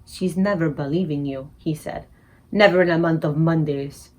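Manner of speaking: sad. Acted. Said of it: "looked down at her sadly".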